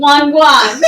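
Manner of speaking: loud laughing repeat. Real, not acted. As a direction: burst out laughing on it. Laughs at the drink name.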